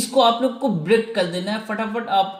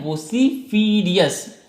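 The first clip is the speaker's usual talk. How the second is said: वोसिफिरियस drawn out slowly, each syllable separate; much slower than usual. Shown as a demonstration. Teacher slowly drawing out the word for the class. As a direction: spell it out slowly for students. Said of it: "क्या है?".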